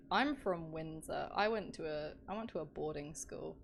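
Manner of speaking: hint of a posh British accent. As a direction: play a Windsor boarding-school posh accent, lightly. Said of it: "I love doing the posh voice".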